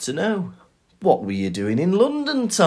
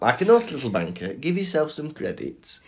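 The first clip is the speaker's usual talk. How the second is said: cheeks pulled apart with fingers; lips stretched wide; 6 dB quieter than usual. Shown as a demonstration. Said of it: "pull your cheeks apart and say that again".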